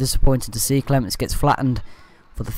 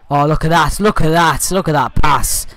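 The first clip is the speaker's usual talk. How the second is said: excited; 3 semitones higher, 4 dB louder than usual. Real, not acted. Commentator marvels at a pass.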